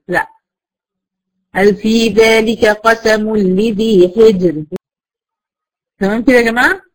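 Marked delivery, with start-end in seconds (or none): 1.5-4.6 slow measured tajweed recitation; Quran recitation. Shown as a demonstration. Teacher recites the example verse for the students. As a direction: chant the verse slowly, resting on حجر. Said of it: "recites verse as example".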